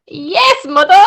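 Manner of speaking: badly imitated British daughter; terrible British accent. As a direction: put on a hammy British accent for your mother. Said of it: "that's a terrible British accent".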